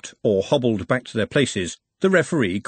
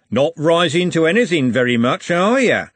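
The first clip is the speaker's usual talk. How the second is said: higher, louder jeer; taunting bully; 6 semitones higher, 6 dB louder than usual. A narrator's reading. Andy goading Trev for not rising, jeering. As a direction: goad him with a mocking question.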